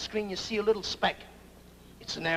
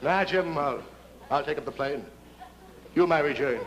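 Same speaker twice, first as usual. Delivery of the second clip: mock heroic pilot; 6 semitones lower than usual. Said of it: "Bill's too smart".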